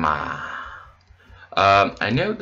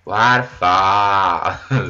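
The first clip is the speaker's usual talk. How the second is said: drawn out; 4 dB louder, much slower than usual. Real, not acted. Drawn out, then laughs sorry.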